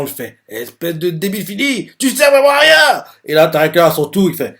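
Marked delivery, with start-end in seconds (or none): 0.5-3.0 rising to a much higher, louder furious yell; angry insult. Acted. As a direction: tear into him, building to a shout. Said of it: "pas content".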